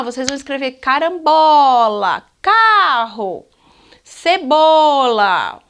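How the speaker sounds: dictating carambola, carro, cebola slowly syllable by syllable; slow dictation. Shown as a demonstration. Teacher to children, dictating slowly with drawn-out words. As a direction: stretch out cebola like dictating to a class. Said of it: "Então, vamos lá".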